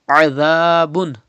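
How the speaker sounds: tongue between teeth for the z of "Azabun"; Zal without whistle. Shown as a demonstration. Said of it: "Pronounce Zal without whistle".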